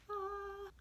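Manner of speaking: high, soft blissful "ah"; blissful sigh. Acted. Savouring the alone time.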